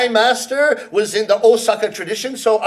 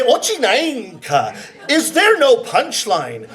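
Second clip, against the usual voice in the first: annoyed Osakan; slower than usual. Retold or imitated. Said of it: "will stop you in annoyance and say".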